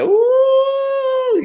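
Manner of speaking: very high, drawn-out ooh; mock wowed reaction in falsetto; impressed ooh. Reacting to a bold line.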